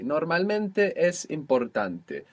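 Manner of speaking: Normalmente es importante said slowly; slow clear sentence. Shown as a demonstration. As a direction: repeat it slowly. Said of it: "This is true".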